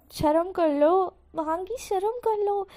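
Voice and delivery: slow, stretched scolding; drawn-out reproach. Acted. Husband chiding Wangi, slow stretched scolding. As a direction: drag out the shame on her.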